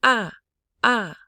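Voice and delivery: loud "Ah", starting high and falling; exclamation mark tone. Shown as a demonstration. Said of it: "This is a exclamation mark tone".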